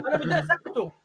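words spoken through real laughter; chuckling mid-sentence; laughing. Real, not acted. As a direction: still laughing as you say it.

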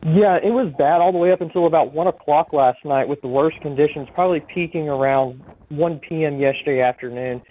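over a phone line; speaking down a phone line. Real, not acted. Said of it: "we have you on the phone".

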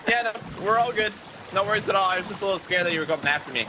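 squeaky put-on friendly voice; high, sweet fake-polite pirate greeting; high fake nice voice. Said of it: "He had a little sarcasm voice".

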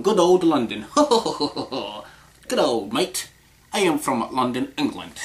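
lightly hammed-up aristocratic London accent. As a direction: put on a mock English aristocrat's accent. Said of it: "yeah, sexy accent".

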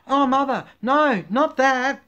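hammed-up squeal of protest; crying baby pigeon. A narrator's reading. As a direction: plead like a panicking baby bird. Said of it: "cried the baby pigeon".

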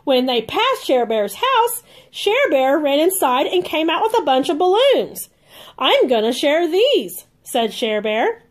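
lively storybook read-aloud for little ones; reading to children. A narrator's reading. Aunt reading a Care Bears book to kids, bright and lively. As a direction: read it like a bedtime picture book.

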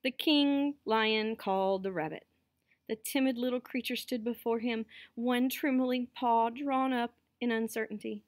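measured storytelling, slightly lifted; story narration. A narrator's reading. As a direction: read it out to listening children. Reads a story aloud.

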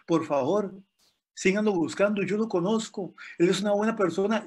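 high, urgent begging to the firemen; pleading coworker. Retold or imitated. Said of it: "le dijo a los bomberos".

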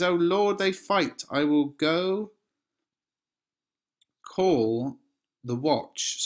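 high, loud, hurried alarm; alarmed page. Acted. The page seeing them fight, alarmed and loud. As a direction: cry out in a panic for help.

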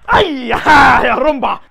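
loud, stretched exclamation; full-volume whooping cry; drawn-out yell. Real, not acted. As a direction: holler it out mid-fight. Yelling during the fight.

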